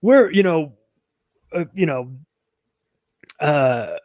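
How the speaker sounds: a mildly hammed-up ranting activist; mock activist. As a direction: play a preachy socialist accusing others. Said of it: "when you're like".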